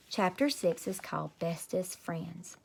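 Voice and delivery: soft, slow whisper; whispered title. Real, not acted. Reader whispering chapter title to listeners, slow.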